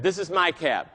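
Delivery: a hint of the low Texan driver; deep Texan voice. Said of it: "I won't get as low as he can go".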